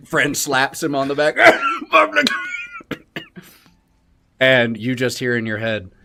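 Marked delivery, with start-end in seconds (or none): 1.4-3.4 high sputtering cough; choking cough. Acted. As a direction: choke on beer. Patron snorts beer, coughs.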